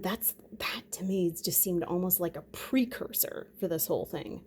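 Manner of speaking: hushed conspiratorial whisper. Real, not acted. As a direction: lean in and whisper it. Ominous aside about conspiracy.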